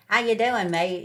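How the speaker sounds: loud, high mock Geordie greeting; a hammed-up Newcastle "How you doing, mate?" tossed out high and loud; Geordie accent. Imitating a Newcastle local's loud Geordie greeting. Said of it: "you've got the ... in Newcastle".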